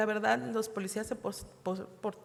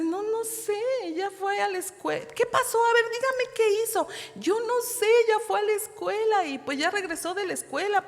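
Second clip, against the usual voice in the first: flustered reply; 9 semitones higher, 5 dB louder than usual. Retold or imitated. Frightened mother answering angry doctor.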